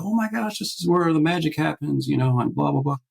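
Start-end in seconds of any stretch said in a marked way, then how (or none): 0.0-2.1 gushing, higher visitor voice; mock wide-eyed awe; imitating an excited studio visitor. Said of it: "they get excited".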